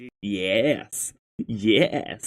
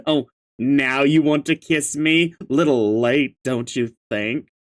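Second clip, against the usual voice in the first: character voice; 2 semitones lower than usual. Acted. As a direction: read it in character, pitched slightly down. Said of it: "gotta read this in the correct voice".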